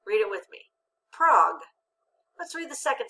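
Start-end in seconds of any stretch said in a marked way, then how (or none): 1.1-1.6 "Prague" said alone as one short closed syllable, loud; syllable without accent. Shown as a demonstration. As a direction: read the syllable "Prague" by itself with a short vowel. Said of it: "without the accent".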